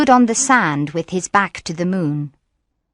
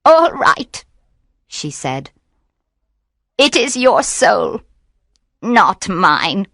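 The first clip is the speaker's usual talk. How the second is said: trembling witch; slower than usual. A narrator's reading. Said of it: "She trembled".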